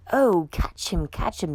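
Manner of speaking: grab that monkey; firemen crying out. Acted. Firemen calling to catch George, urgent. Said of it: "they cried".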